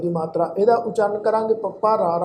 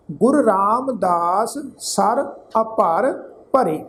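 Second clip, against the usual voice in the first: slow, measured verse reading with drawn vowels; scripture recitation; slower than usual. Shown as a demonstration. Teacher recites sacred verse to congregation, measured recitation. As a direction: recite phrase by phrase, pausing between.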